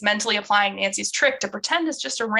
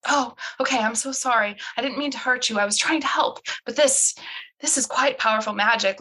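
apologetic soothing; 3 semitones higher than usual. Acted. Bess soothes woman she hurt.

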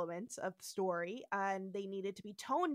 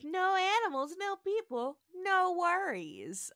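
Sulu quote; 5 semitones higher, 3 dB louder than usual. Retold or imitated. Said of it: "says Sulu".

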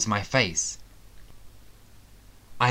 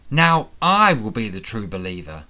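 triumphant; 5 dB louder than usual. Acted. Villain claims prize triumphantly.

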